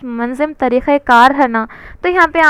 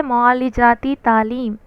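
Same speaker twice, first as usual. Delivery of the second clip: معالجاتی تعلیم drawn out slowly, each word weighted; slow emphasis; 2 semitones lower than usual. Shown as a demonstration. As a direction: drill the term معالجاتی تعلیم for the class. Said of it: "ایک پھر سے بول رہا ہوں میں آپ کو". (معالجاتی تعلیم پر آہستہ زور)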